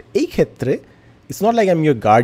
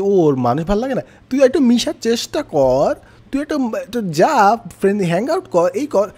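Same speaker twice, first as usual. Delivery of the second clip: higher-pitched mock urging; pushy well-meaning advisor; 5 semitones higher than usual. People advising someone who dislikes people, mock urging. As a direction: lightly imitate someone nagging a friend to socialise. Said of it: "যখনই কেউ দেখে যে".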